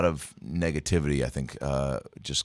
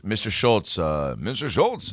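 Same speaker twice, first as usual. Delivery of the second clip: imitating Mister Schultz; 3 semitones higher, slower than usual. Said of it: "and he would go".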